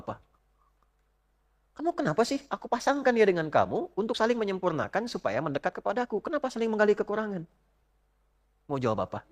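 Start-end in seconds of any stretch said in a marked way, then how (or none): 1.8-7.5 reproachful God. Acted. God questions spouse at judgment.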